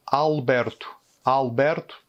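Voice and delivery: Alberto avec le A ouvert au début; prénom portugais. Shown as a demonstration. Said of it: "le prénom". (Alberto, A ouvert)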